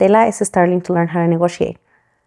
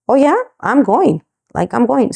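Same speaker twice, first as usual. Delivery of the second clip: excited; 5 semitones higher than usual. Retold or imitated. Accepting the job offer gladly.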